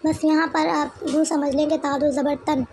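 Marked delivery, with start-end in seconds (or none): 2.0-2.6 तन ending in a clear nun sound; tanween nun ending. Shown as a demonstration. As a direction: let the final न of तन ring out. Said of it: "आखिर में जो हमने नून का sound हुआ".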